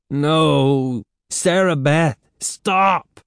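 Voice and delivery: high, rising plea; alarmed, pleading cry; desperate pleading. A narrator's reading. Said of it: "Catherine pleaded".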